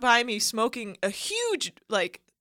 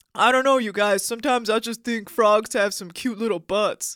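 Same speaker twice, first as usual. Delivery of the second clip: mock manly-man delivery; 3 dB louder than usual. Asked by a friend to repeat a remark, saying it in a manly tone. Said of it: "say what you just said in that manly tone".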